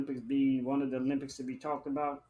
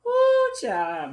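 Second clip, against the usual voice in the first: shrieking laugh; 6 dB louder than usual. Real, not acted.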